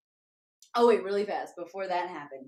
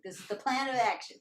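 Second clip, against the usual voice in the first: mock commanding, laughing; laughing declaration; 3 semitones higher than usual. Real, not acted. Announcing plan, laugh shout.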